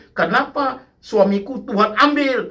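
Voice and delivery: high, slow plaintive mock cry; retold anguished protest. Preacher voicing a widow who cannot accept reality, anguished protest. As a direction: imitate a widow's drawn-out lament.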